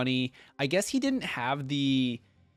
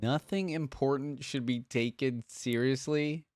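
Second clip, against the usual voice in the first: questioning echo; 2 semitones higher, slower than usual. Retold or imitated. Questioning repeat of game line.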